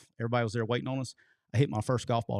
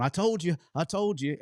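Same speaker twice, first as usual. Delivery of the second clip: teasing colleague; 7 semitones higher than usual. Retold or imitated. Kirby teasing the narrator as the room scatters, higher gloating told-you-so. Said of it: "Kirby's going".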